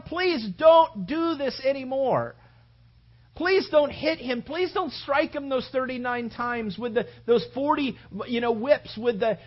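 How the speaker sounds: disciples begging the soldiers to stop; pleading disciples. Acted. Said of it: "they're just going".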